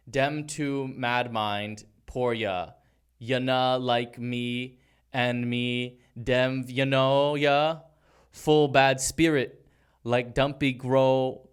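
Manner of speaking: slow, stumbling patois read; halting Jamaican lyric reading. Shown as a demonstration. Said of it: "just read that one".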